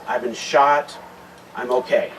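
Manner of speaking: steady, even, understated report; officer calmly radios in after being shot, in a level voice. Retold or imitated. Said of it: "very calmly says that".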